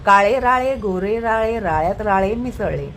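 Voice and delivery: tongue twister picking up speed. Shown as a demonstration. Teacher speeding up the tongue twister for the child. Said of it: "वेग वाढवत म्हण".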